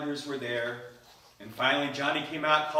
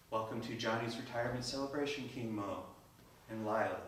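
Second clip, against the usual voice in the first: soft gracious greeting; 3 semitones lower, 10 dB quieter than usual. Acted. Radiant wife greets king.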